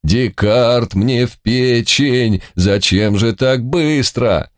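slow, high alarmed cry. Acted. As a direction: panic as the horse bolts. Panicked on galloping horse.

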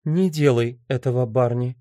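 calmly dissuading; understated, composed appeal. A narrator's reading. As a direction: ask him gently not to do it. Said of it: "спокойно сказала Энн".

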